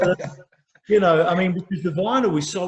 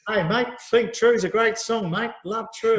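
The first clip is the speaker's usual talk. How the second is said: slow, higher mock Australian accent; Hugh Jackman; 5 semitones higher than usual. Actor praises the singer's song, mock Australian accent. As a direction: put on a matey Australian accent. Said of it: "doing the Australian accent".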